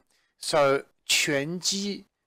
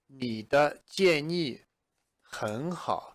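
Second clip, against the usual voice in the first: mild friendly reply at slow pace; lightly voiced friend; 2 semitones higher, much slower than usual. Shown as a demonstration. A friend lightly answers the suggestion, slowly. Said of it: "with me might say".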